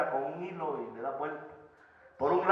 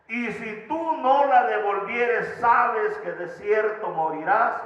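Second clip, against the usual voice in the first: solemn divine warning; 4 semitones higher, 4 dB louder, much slower than usual. Acted. God's warning to Abimelech.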